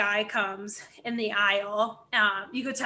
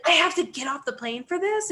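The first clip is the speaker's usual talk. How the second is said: higher-pitched incredulous question; indignant disbelief; 6 semitones higher than usual. Retold or imitated. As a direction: imitate an affronted passenger protesting. Retold indignant passenger objecting to removal.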